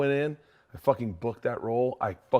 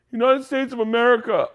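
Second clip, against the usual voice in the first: proud player answer; 12 semitones higher, 7 dB louder than usual. Retold or imitated. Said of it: "And he goes".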